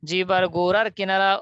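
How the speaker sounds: জিহ্বার গোড়ার কিনারা spoken slowly, each word clear; slow dictation. Shown as a demonstration. Teacher dictates the rule for students to memorize, slow. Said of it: "আমার একবার বলার পর বলবেন".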